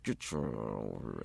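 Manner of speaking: low, soft, menacing through the teeth; scary mom through gritted teeth. Retold or imitated. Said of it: "say things between your teeth".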